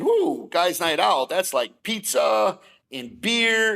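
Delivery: drawn-out, relishing delight; eager anticipation. Retold or imitated. Man daydreaming about guys night out, eager. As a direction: stretch it out, savoring the idea.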